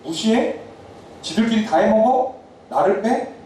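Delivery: a touch of mock outrage; offended retort. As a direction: voice a hurt, affronted tribe. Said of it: "약간 기분이 나쁜 거예요".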